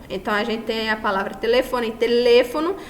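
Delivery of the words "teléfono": "Teléfono" with weight on LÉ, rising at the end; stress on LE. Shown as a demonstration. Teacher repeating the example word, "Teléfono" stressed on LÉ. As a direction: lean on the LÉ of "Teléfono". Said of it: "a sílaba tônica recai no le".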